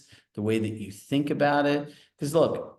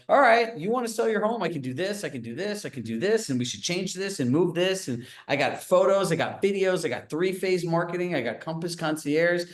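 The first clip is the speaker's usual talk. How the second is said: higher, pushy sales-pitch voice; eager agent; 5 semitones higher than usual. Retold or imitated. Agent pitching a homeowner, in a higher, pushy sales voice. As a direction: play the overeager listing agent selling hard. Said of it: "agents show up in there and are like".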